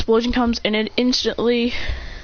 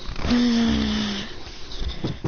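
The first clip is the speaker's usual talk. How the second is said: angry sigh; 4 dB quieter than usual. Retold or imitated. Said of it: "with an angry look on his face".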